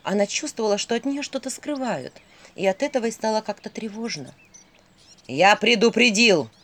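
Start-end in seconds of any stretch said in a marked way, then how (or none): 5.3-6.5 slow, heavy warning shout; terrible shout. Acted. Owl bellows a warning at the skull, slow and loud. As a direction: threaten her with every word. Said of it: "страшным голосом закричал Филин".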